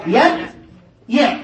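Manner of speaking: يبيع stretched very slowly; slow careful يبيع; drawn-out word. Shown as a demonstration. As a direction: draw out يبيع syllable by syllable for the class. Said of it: "نريد الأمر من يبيع".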